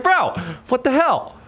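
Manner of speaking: very high, slow, incredulous imitation; mock exasperation. Friend outdone at the bar, mock exasperated. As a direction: draw it out in put-on disbelief.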